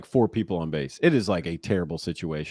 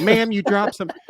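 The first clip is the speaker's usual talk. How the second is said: high, loud mock call with laughter; really loud call; 11 semitones higher, 5 dB louder than usual. Prankster to lady in high heels, loud imitated call-out. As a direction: imitate hailing a stranger, laughing through it. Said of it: "like, really loud".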